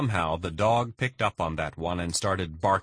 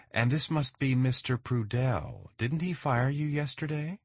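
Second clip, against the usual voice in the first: mocking; 7 semitones higher than usual. Mrs Vargas mocks Alex at door.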